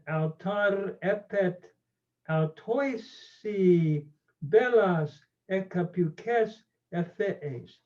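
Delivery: slow, careful read-aloud of the Homeric Greek; slow measured reading, not in hexameter. Shown as a demonstration. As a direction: read each Greek word slowly and clearly. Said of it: "I'll just read it slowly".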